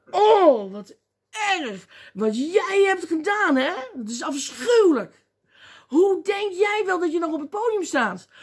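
loud, high scandalised scolding; overdone judgmental outrage; mock indignation. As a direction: berate a sinner in hammed-up horror. Acting out scandalised church accusers.

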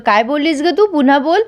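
retold anger. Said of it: "मग सत्या चिडतो".

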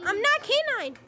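high, loud trolling voice; troll the lobby with insistent denials; high mock-protesting troll; K nine. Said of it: "be saying the entire time".

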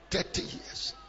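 breathy whispered repeat. Acted. Preacher hushing the congregation, whispered. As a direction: drop it to a whisper.

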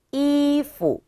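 이푸 with 이 held high and level, 푸 short and dropped; neutral-tone demo. Shown as a demonstration. Teacher models the word for clothes, high tone then neutral tone. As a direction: hold 이 high, then drop 푸 lightly. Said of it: "경성이에요".

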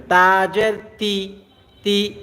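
তি drawn slowly downward; zer pulled down. Shown as a demonstration. Quran teacher showing zer to class: তি pulled downward. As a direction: pull তি down and stretch it. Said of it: "নিচের দিকে টান দিবেন".

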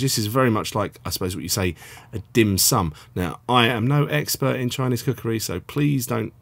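ordinary talk

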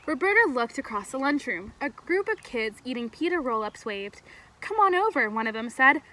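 clear, animated storybook reading; story read-aloud. A narrator's reading. Camp leader reading a story to kids, animated storytelling. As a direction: read expressively to a group of children.

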